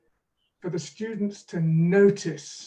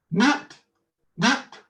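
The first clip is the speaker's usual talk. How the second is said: higher, louder kazoo buzz; through a kazoo; 6 semitones higher, 5 dB louder than usual. Shown as a demonstration. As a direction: hum each one through a kazoo. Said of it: "through this kazoo".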